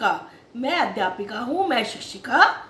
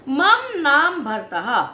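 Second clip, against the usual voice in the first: slow recitation; 3 dB louder, much slower than usual. Shown as a demonstration. Teacher models Sanskrit sentence.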